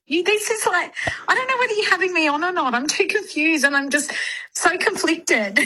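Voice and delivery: ordinary delivery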